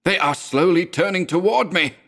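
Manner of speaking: high, terrified shriek; a frightened man shrieking in panic. A narrator's reading. Madman shrieks at his friend, high and terrified. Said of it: "he shrieked".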